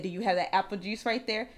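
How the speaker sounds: low, soft, calm question; zen coworker. Retold or imitated. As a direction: imitate an unbothered man, quietly asking. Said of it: "He's very zen".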